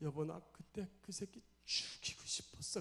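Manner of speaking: slow, tearful whisper.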